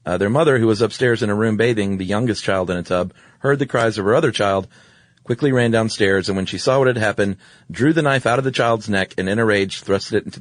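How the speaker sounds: read-aloud story narration, lifted at sentence starts. A narrator's reading. Host reads a grim fairy tale to co-host, story reading. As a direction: read an old tale aloud, evenly paced.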